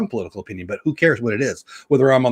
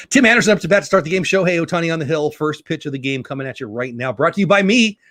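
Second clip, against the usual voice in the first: mock announcer; 3 semitones higher than usual. Streamer calling the first pitch to his viewers, mock announcer. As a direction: ham up a ballgame broadcaster.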